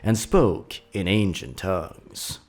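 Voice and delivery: a hint of a grandma gathering her grandchildren round; old grandma storyteller. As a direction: tell it like a folksy old grandmother to the kids. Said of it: "Grandma Millie got an old tale to tell ya".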